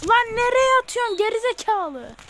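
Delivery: very loud, very high screaming rage at the screen; furious shout. Real, not acted. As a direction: scream it in disbelief at the bad pass. Raging at his player's bad pass.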